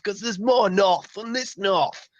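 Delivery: slow northern Yorkshire voice; mock Yorkshire accent. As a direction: stretch it out like a proud northerner. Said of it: "different Yorkshire accents".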